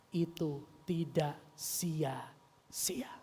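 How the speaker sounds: very slow, word by word; spaced-out, deliberate delivery; slow emphasis. Real, not acted. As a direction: draw out each word with weight. Testimony's key point, word by word.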